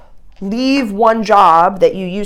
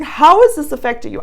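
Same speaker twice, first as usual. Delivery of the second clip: gentle curious ask; 8 semitones higher, 4 dB louder than usual. Shown as a demonstration. To her birth father, the gentle way she really asked it. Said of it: "I was just saying".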